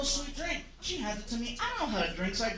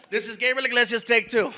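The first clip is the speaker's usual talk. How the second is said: unenthusiastic; 6 dB louder than usual. Shown as a demonstration. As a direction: read it flat, with no energy. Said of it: "you sound really unenthusiastic".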